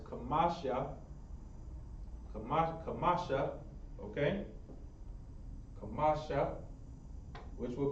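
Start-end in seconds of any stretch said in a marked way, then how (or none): 0.1-0.9 kamasha with an added final "a"; pronunciation demo. Shown as a demonstration. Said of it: "we're gonna be pronouncing this as". 2.3-3.5 kamasha in three syllables, ka-MA-sha; pronunciation demo. Shown as a demonstration. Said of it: "we're gonna be pronouncing this as". 5.8-6.6 Kamasha, stressed on "ma", open final "a"; pronunciation demo. Shown as a demonstration. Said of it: "we're gonna be pronouncing this as".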